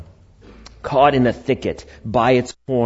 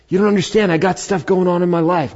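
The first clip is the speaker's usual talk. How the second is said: higher-pitched, slightly pleading objection; complaining listener; 6 semitones higher than usual. Pretend. Pastor voicing a doubter who has troubles, mock complaint. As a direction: play the worried churchgoer protesting.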